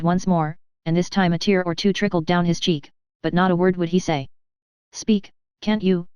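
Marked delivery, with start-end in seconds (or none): 4.9-6.1 slow, impatient demand; an understated impatient call; impatient cry. Acted. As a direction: press him slowly, losing patience. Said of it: "Heike cried impatiently".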